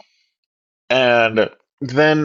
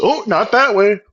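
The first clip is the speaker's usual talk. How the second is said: mock taunting; 5 semitones higher than usual. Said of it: "she's fucking taunting me".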